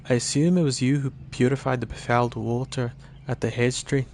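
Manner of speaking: lilting mix of Scottish and Irish; muddled Scottish-Irish. Acted. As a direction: play the elf in a wobbly Scottish-Irish brogue. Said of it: "It's, like, Scottish and Irish".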